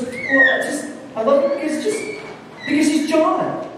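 high, flustered plea; Mary, cornered, squeaks out her reason; flustered girl. Retold or imitated. Mary answers the pressing professor in a high flustered voice. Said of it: "she goes".

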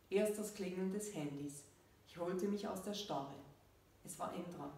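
measured reading with falling sentence ends; story narration. A narrator's reading. Author reads her story to listeners, measured narration. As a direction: read the story out evenly, pausing between phrases.

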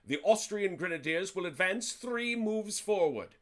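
imperious voice. Shown as a demonstration. Player announcing a grenadier advance to the table, mock-imperious. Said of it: "in an imperious voice".

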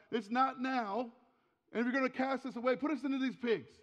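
retold outcry of alarmed demons; demons crying out. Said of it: "They cry out".

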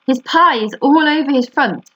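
high-pitched storybook shout; lightly acted high shout. A narrator's reading. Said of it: "shouted Fern".

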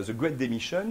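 English phrase, Spanish-accented. Real, not acted. Speaker repeating the American term for the audience, Spanish accent. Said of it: "je le dis avec mon accent espagnol".

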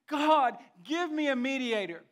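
preacher acting Job's loud plea to God; crying out. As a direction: call out to heaven as Job. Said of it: "and he cries out".

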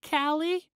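put-on high, timid little girl; tiny voice. A narrator's reading. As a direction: answer small and frightened. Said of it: "she replied in a tiny voice".

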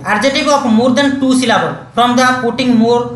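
slow, careful textbook reading; reading a rule. Shown as a demonstration. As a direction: read the English rule out slowly for students. Reads the rule from screen. (ଧୀରେ ଧୀରେ ନିୟମ ପଢ଼ିବା)

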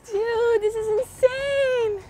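high, drawn-out amazement; amazed excitement. Real, not acted. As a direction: marvel slowly at the catch. Celebrating personal best fish.

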